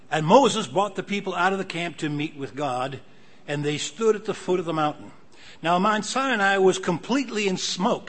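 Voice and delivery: preacher reading out the Bible; emphatic scripture reading. Acted. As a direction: proclaim it, leaning hard on key words. Reads scripture aloud.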